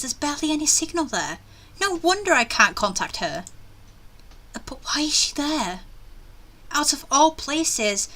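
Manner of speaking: acted complaining inner monologue; expressive read, dreading the errand; reluctant game heroine. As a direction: grumble through it as the uneasy heroine. Reads heroine's reluctant thoughts aloud.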